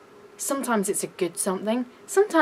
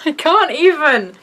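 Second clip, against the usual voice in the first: loud, higher, through laughter; laughing disbelief; 5 semitones higher, 8 dB louder than usual. Real, not acted. Retelling the coworker's remark, laughing in disbelief. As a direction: laugh it out, can't believe it.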